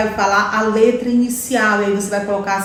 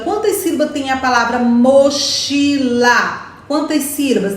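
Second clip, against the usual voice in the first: teacher's oral question. Shown as a demonstration. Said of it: "você pode ir fazendo essas perguntas orais".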